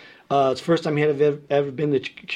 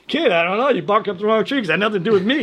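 lightly voiced gruff brush-off, raised and quick; Dave Taylor; 5 semitones higher, faster than usual. Old-school mentor refusing a young player's thanks, dismissively. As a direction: wave off the thanks with a fast denial. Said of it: "He goes".

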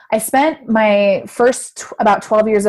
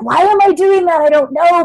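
higher, louder bewildered question; a child puzzling over herself; puzzled self-quote; 10 semitones higher, 5 dB louder than usual. Retold or imitated. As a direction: act baffled by your own habit. Quoting her puzzled younger self.

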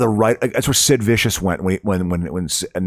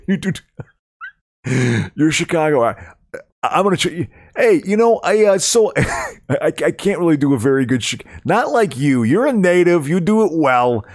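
laughing; 7 semitones higher, 4 dB louder than usual. Real, not acted. Laughing, teasing about Chicago accent.

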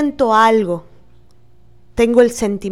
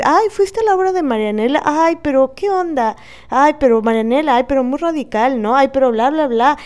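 gossipy friend; 3 semitones higher than usual. Retold or imitated. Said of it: "le empezó a decir".

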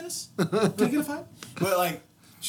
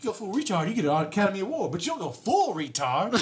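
quoting the movie; 2 semitones higher than usual. Retold or imitated. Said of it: "he's like".

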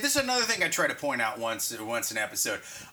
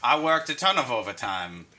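Morgan Freeman voice; 6 semitones lower than usual. Pretend. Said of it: "doing the Morgan Freeman voice".

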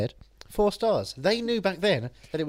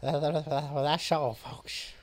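stuttered cartoon goodbye; Looney Tunes sign-off; 2 semitones lower, 4 dB quieter, much slower than usual. Co-host signing off the show, mock cartoon stutter. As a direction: stammer it out, trailing off softly. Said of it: "I'm now doing the Looney Tunes".

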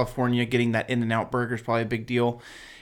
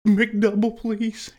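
eager plea; 7 semitones higher than usual. Retold or imitated. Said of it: "you'll be like".

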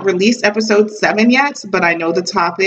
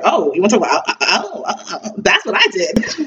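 laughing. Retold or imitated. Laughing while recalling the list.

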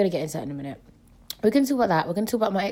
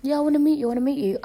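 mocking eager guy; 6 semitones higher, 4 dB louder, much faster than usual. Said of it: "guys that say".

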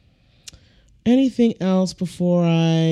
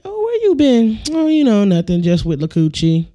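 mock gossip dialogue; 3 semitones higher, 3 dB louder than usual. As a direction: voice two friends catching up, playfully.

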